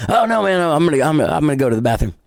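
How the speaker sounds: a flustered mock excuse, voice shooting up. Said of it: "and he's like".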